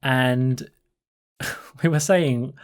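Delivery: usual speaking voice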